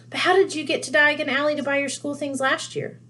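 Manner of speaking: put-on eager older wizard; Mr Weasley voice. A narrator's reading.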